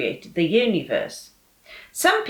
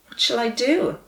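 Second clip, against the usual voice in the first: frightened; 5 semitones higher than usual. Acted. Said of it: "began to feel frightened too".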